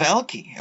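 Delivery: Elke said as EL-kee, rising at the end; unsure pronunciation. Shown as a demonstration. Host trying out the statue's name, unsure pronunciation of Elke as EL-kee. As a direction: say Elke with a hard k and an "ee" ending. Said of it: "I don't know how to say it".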